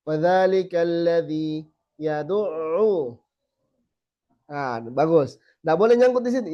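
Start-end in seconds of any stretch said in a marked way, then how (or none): 0.1-3.2 fadzalikal ladzi yad'u recited slowly with flowing ain; slow, measured, ain not stuck; slow recitation. Shown as a demonstration. Teacher reciting an example, slowly.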